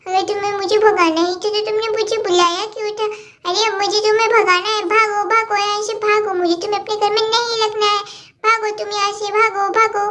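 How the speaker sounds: lightly voiced bickering kids, getting cross; squabbling little girls. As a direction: play two little girls fighting over a toy set. Cartoon kids quarrel continues.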